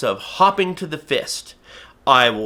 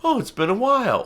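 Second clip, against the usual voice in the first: inner voice pondering; 9 semitones higher than usual. Retold or imitated. A teacher voicing a viewer's brain recalling cookies, high and musing. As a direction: wonder aloud like a brain searching memory. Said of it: "your brain goes like".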